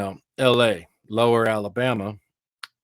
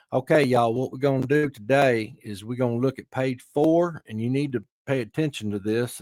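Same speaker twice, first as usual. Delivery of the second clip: hammed-up Southern educational guy; Lower Alabama accent; 2 semitones higher than usual. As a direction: teach the class in a mock Alabama accent. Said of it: "we got a twang. We, we don't have that, you know, that, that deepness".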